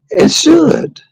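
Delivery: high, breathy whisper; whispered falsetto. Real, not acted.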